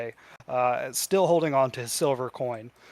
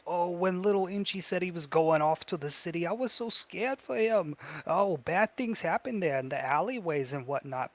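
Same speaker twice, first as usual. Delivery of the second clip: lilting mother, fretful then proud; fretful doting mother; 3 semitones higher than usual. Acted. Goblin recalling little Inchi's trip to the city, doting. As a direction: coo over the industrious little one.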